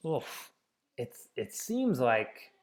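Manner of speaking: it seems like said softly with a long pause; a soft hesitant label, drawn out; slow paused label. Shown as a demonstration. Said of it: "a mid-label pause".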